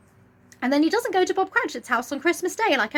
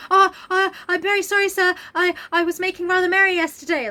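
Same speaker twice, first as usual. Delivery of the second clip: higher, louder put-on nervous clerk; mock flustered apology; 4 semitones higher, 3 dB louder than usual. Bob apologising to Scrooge for being late, higher flustered. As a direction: stammer it like a caught-out clerk.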